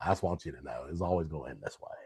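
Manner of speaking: very soft, hushed movie-star voice. Retelling what the sergeant said at the end: Matthew McConaughey voice. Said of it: "he had Matthew McConaughey's voice".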